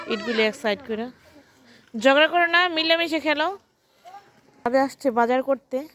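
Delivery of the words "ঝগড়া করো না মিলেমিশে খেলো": calling out. Real, not acted. Calling out to children.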